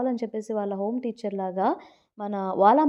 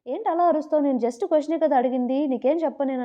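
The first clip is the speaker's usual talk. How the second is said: higher, mildly indignant retort; retold anger; 4 semitones higher, 4 dB louder than usual. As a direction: act out an offended comeback, lightly. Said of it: "తన కోపం వచ్చేసి". (కోపం వచ్చినట్టు అనుకరణ)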